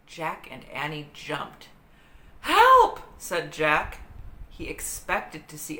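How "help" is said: high, loud startled cry; yell for help. A narrator's reading. Jack startled by a screech, yells for help. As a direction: jump and yell at the noise.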